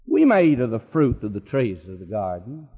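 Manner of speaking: low, toned-down quote of Eve; grudging, held-back concession; understated grudging Eve. Retold or imitated. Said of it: "You notice how she frames it?".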